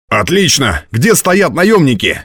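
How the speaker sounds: pleased outburst rising high; eager exclamation. A narrator's reading. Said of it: "воскликнул Ратибор".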